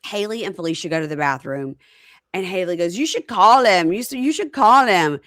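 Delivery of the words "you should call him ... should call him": retold urging.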